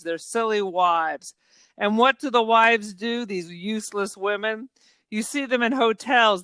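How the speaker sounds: measured recital of a villain's speech, falling at phrase ends; dramatic monologue reading. Acted. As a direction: recite a contemptuous dinner-table speech. Reads film villain's monologue.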